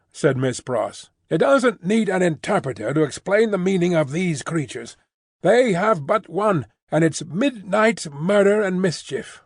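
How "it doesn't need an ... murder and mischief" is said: higher, indignant maid; a touch of prim scorn; lightly voiced scornful spinster. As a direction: sniff at the foreigners, lightly voiced. Miss Pross scorns foreigners.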